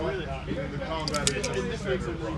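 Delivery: breathless between words; talking while winded; out of breath. Real, not acted. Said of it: "I'm out of breath".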